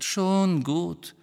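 high, irritated interruption; impatient cut-in. A narrator's reading. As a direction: break in to stop the warning. Sirius cuts off Harry's warning.

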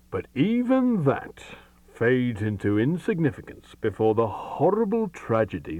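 slow, high and dramatic; grave storyteller. Acted. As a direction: build the tale with drawn-out dread. Great detective tells his tale.

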